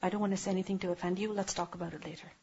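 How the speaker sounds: a quiet, restrained reply to an angry partner; calm, quiet reply. Shown as a demonstration. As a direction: say it low and steady to defuse. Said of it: "tell them".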